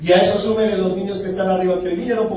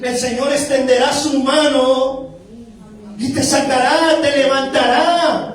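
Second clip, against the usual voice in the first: raised-pitch preaching, building to a promise; prédica enérgica; 4 semitones higher than usual. Real, not acted. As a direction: lift the congregation, stretching the final words. Predica con fuerza creciente. (prédica que va subiendo)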